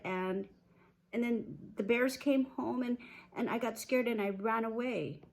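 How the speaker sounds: high-voiced girl confessing, halting; Goldilocks. Goldilocks apologising to her mom, halting and whiny.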